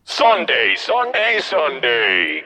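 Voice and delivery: booming hammed-up ad announcer; radio ad announcer. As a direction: sell it like a cheesy radio spot. Mock monster-truck ad opening.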